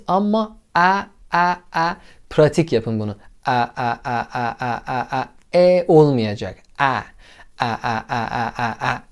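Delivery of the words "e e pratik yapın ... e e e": teacher drilling a vowel; drill the English e sound. Shown as a demonstration. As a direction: practise "E" again and again like a drill. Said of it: "Böyle pratik yapıyoruz".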